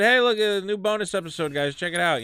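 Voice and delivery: chirpy plug of the new episode; bright mock-hype post; retold excitement. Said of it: "'cause I was excited".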